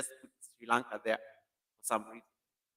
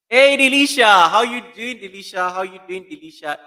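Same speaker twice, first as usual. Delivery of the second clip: excited greeting; 6 semitones higher, 14 dB louder than usual. Real, not acted. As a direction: sing out the hello like spotting a friend. Greeting a viewer on livestream.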